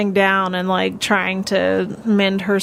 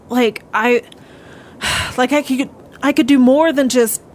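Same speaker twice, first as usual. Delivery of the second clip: frustrated; 3 semitones higher than usual. Acted. Character vents about her failed ambition.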